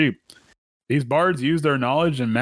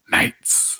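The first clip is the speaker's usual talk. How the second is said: one whispered word. Pretend. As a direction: breathe it out without voice. Continuing the whisper joke.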